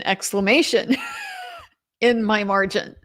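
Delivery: laughing exclamation, real amusement; amused real laugh. Real, not acted. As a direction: let the laugh break through the word. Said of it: "O N F G exclamation".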